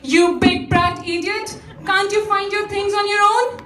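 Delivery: exasperated mother telling off her son; cross scolding. Acted. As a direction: scold him with rising pitch.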